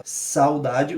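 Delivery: "Saudade" with the a of "sau" standing out over a weak u; stress on a. Shown as a demonstration. Teacher showing students the vowel that stands out. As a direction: lean on the a in "Saudade". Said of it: "o que se destaca é o A".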